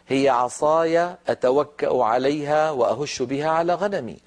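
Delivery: a lightly recited verse, measured; Quran recitation. Acted. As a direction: recite it gently like scripture. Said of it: "قال تعالى على لسان موسى". (تلاوة خفيفة للآية)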